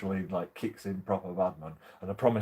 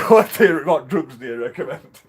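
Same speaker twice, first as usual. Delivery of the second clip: high, loud eager blurt; mock eager plea; 6 semitones higher, 13 dB louder than usual. Telling the doctor he'd rather have drugs, eager loud blurt. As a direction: pounce on it like a kid at a sweet shop.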